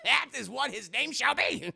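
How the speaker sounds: high, mock-grand pronouncement through laughter; laughing decree. Real, not acted. Streamer settling a forgotten name, laughing proclamation. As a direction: declare it pompously while cracking up.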